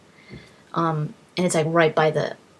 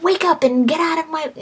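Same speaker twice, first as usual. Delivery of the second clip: higher voice of a fed-up priestess waking you; annoyed temple lady; 9 semitones higher than usual. Retold or imitated. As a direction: shoo the drunk out, a bit higher. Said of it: "this lady's like".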